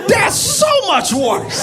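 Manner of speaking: cracking up at the joke; comic laughing at a witness's answer; laughing outburst. Real, not acted.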